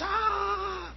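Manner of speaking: high, breathy gasp of awe; a hammed-up gasp of wonder; mock crowd gasp. Crowd reacts to a blood drop.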